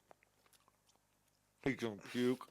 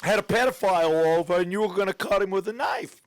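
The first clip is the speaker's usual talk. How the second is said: higher, badly faked Canadian accent; muddled put-on accent; 3 semitones higher than usual. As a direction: overplay a shaky Canadian accent. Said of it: "What the fuck accent is this?".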